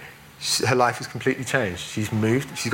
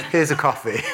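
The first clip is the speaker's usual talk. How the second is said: laughing offer; 4 semitones higher than usual. Retold or imitated.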